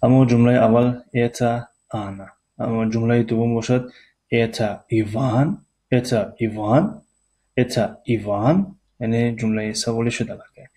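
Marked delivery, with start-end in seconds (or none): 4.3-8.8 rising question tune on ایوان; question intonation. Shown as a demonstration. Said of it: "فرقیت طرز تلفظ". (آهنگ سوالی روی ایوان)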